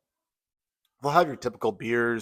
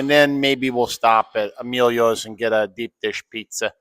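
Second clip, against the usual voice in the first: flat Midwestern Chicago accent; demonstrated Chicago accent; 4 dB louder than usual. Shown as a demonstration. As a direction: plan it like a Chicago local. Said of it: "Chicago accent".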